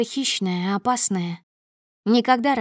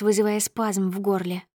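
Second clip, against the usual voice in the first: ordinary delivery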